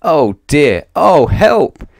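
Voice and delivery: put-on scared boy calling for help; panicked cry. A narrator's reading. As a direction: cry out in alarm. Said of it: "gasped Jack".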